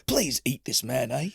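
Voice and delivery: a light put-on Canadian accent, hammed up; mock Canadian accent. Friend mocking polite Canadians, in a light put-on Canadian accent. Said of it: "I don't know why I'm making him Australian".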